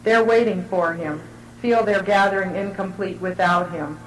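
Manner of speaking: measured, evenly paced reading aloud; literary reading. Real, not acted. Writer reading their descriptive portrait to an audience, measured literary reading. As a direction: read it in deliberate phrases, pausing between images. Reads her written piece aloud.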